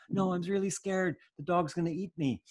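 put-on high, frightened child's plea; pleading child. Scared toddler pleading with a dismissive father, high voice. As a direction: beg daddy to listen.

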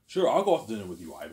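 loud, quick mock acceptance; imitated eager yes. Woman saying yes to a dinner date, imitated eager yes. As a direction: play her agreeing brightly in a rush.

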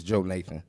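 "Joe Nathan": long JOE, clear break, then Nathan; Jonathan as Joe Nathan. Shown as a demonstration. Brother correcting the guests on his name, said as "Joe Nathan". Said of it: "Correct pronunciation is".

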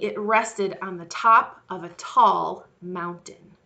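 slow, lively reading of the flood; storybook narration. Acted. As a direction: tell the flood story to little ones.

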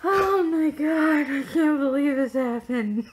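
can't believe it, say it big; excited disbelief. Real, not acted. Vlogger telling the camera about the bed collapsing, in loud disbelief.

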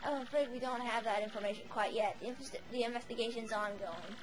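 put-on quiet, raspy old witch voice; raspy old hag. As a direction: report it like a grim crone. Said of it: "a bit of a raspy voice with the older characters".

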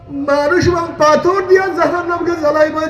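high, wailing verse, retold as a weeping stone; tearful recitation. Weeping stone tells Musa its fear of hellfire, tearful chanting. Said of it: "আমি কান্নাকাটি করতে আছি".

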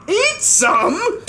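high, shocked gasping question; aghast disbelief; high startled echo; gasped. Acted. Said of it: "gasped Bartholomew".

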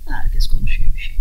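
a loud stage whisper. Acted. Preacher whispers about gossip to the congregation. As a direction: whisper it hoarsely but strongly.

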